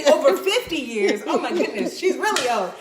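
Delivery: laughing tease. Real, not acted. Teasing her mom's age.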